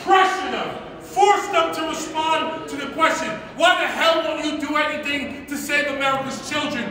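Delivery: shrill anger. Real, not acted. Heated rant against cowards.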